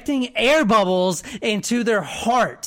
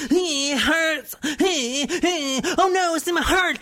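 higher, fast hammed-up dying victim; mock pain; 6 semitones higher than usual. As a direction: play the dying victim, over the top. Acting victim of air bubble.

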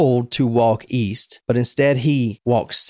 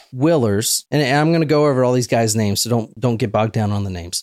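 normal talking voice

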